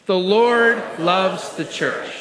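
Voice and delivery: slow, deliberate group recitation; confident unison lead. Real, not acted. Pastor leading believers to say it with confidence, slow and firm. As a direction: draw it out firmly for the room to follow. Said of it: "say that with me with confidence".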